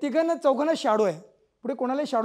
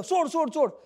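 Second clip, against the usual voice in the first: retold yell; 5 semitones higher than usual. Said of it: "वाकून ओरडते मुलं".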